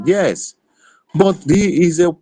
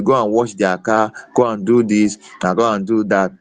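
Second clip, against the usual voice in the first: mock bossy order; 4 semitones lower than usual. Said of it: "they will, you, ask you".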